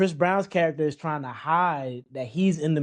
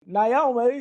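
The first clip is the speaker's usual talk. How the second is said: imitated dramatic call; 8 semitones higher, 4 dB louder than usual. Imitating actor yelling name.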